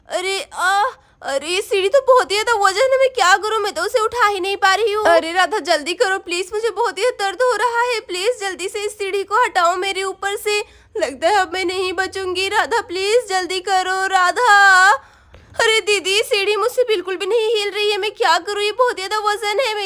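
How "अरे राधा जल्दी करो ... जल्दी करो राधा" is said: trapped woman begging for help; pained plea. Acted. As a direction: plead through the pain. Injured woman begs in pain.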